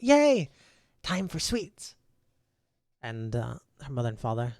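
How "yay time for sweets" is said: put-on high, loud, bouncing child's cheer; little girl shrieking with joy; excited squeal. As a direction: squeal it like a kid who can't wait. Excited child jumping out of wagon.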